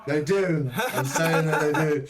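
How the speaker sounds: firm insisting. Real, not acted. GM insisting, louder.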